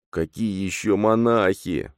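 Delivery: slow wheezing croak; a hoarse breathless question; hoarse wheeze. A narrator's reading. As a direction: rasp it out in shock. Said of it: "просипел Богдан".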